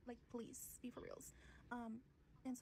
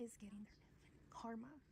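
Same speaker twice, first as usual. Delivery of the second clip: a whispered setup before the last word; hushed build-up. Real, not acted. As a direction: drop to a whisper before the payoff.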